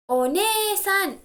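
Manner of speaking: "One-san" slow, with ne drawn out high; stress on ne. Shown as a demonstration. Teacher modelling older sister word, long high "ne" in "One-san". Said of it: "here we stress the syllable".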